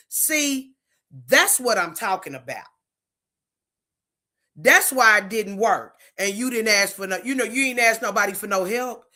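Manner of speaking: biting, mocking jab at the other person; sarcastic tone. Shown as a demonstration. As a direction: sneer it out, the last lines fast. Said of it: "I want you to hear the tone when I say it".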